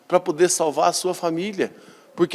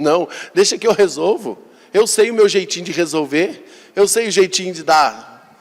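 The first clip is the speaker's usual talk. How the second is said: stubborn son; 4 semitones higher, 4 dB louder than usual. Retold or imitated. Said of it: "e o filho fala assim".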